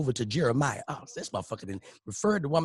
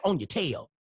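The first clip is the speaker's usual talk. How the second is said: preacher daddy; 3 semitones higher than usual. Retold or imitated. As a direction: play the churchy dad warning his son. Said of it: "daddy voiced in story".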